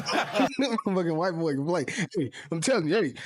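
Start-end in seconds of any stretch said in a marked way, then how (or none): 0.0-1.8 laughing. Real, not acted. Laughing at Maxwell's story.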